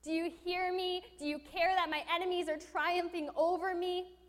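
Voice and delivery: loud, high, drawn-out plea; crying out to God. Retold or imitated. David crying out to God, slow loud plea. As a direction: plead slowly upward. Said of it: "David's crying out to God".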